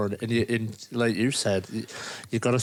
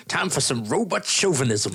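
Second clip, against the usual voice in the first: raised-pitch, hammy Southern American line reading; Southern robot impression; 5 semitones higher than usual. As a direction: quote the movie robot in a mock Southern accent. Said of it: "He says".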